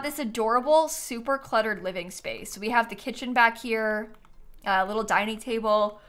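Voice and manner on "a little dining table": yawning through the words. Real, not acted. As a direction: talk mid-yawn. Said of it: "I'm yawning again".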